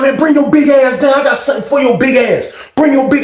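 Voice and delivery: threatening shout from the top tier; retold threat shout. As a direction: bark the threat down. Dwayne threatening, knife in hand.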